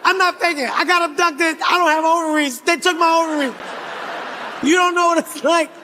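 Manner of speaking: desperate protest. Acted. Protesting accusation of faking.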